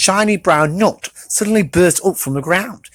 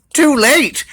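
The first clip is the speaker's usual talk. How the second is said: dramatic exclaim; 8 semitones higher than usual. A narrator's reading. Crash narration.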